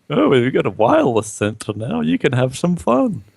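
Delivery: mock a gimmicky product boast; mocking sales pitch.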